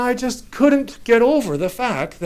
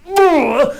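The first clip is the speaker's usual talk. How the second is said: disgusted groan; 6 semitones higher, 4 dB louder than usual. Retold or imitated. Disgust at the plain car winning.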